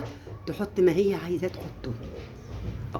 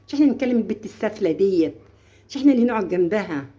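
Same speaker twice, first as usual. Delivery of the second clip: friendly coaxing. Retold or imitated. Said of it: "تصاحبوهم".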